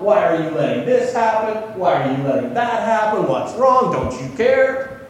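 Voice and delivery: mild protest, pressing each question; complaining prayer. Retold or imitated. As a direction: voice a frustrated complaint to God. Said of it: "complaints about God".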